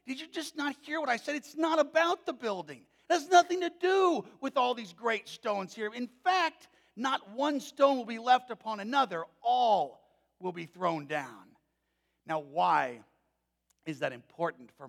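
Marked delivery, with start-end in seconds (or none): 0.1-11.6 much higher, louder exasperated teacher; Jesus chiding disciples about the temple, higher and louder. Retold or imitated. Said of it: "And Jesus was like".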